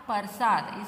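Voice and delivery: "प्रसाद" as PAR-saad; loud "प्रसाद" with the r moved after the vowel; misspelt option. Shown as a demonstration. Teacher reads out a wrong option, "प्रसाद" garbled as par-saad. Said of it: "इसमें से correct कौन सा है".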